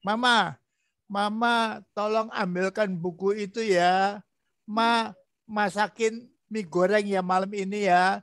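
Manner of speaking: lightly voiced tender husband; gentle request. Shown as a demonstration. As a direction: ask sweetly and unhurried. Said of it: "Jadi ngomongnya yang lemah lembut begitu".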